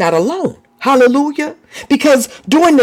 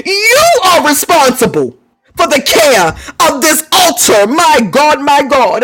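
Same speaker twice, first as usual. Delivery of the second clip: crying out; 4 semitones higher than usual. Real, not acted. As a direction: cry it out with full force. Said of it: "Hear me".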